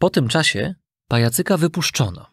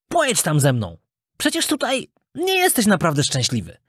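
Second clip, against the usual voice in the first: lightly voiced boy, somewhat higher pitched; persuasive schoolfriend; 7 semitones higher than usual. Knot tempting his friend to Toyland, persuasive. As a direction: coax lightly in a raised boyish voice.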